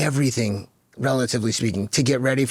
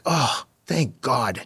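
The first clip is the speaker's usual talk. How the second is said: relieved; much slower than usual. Real, not acted. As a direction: let it out slowly, like a weight just lifted. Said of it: "I mean, I feel it now".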